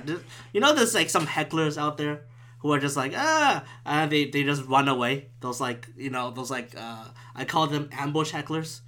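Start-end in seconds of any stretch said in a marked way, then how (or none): 3.2-3.6 high mock heckler holler; imitated heckler yell. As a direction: imitate a heckler yelling from afar. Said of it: "they yell at you".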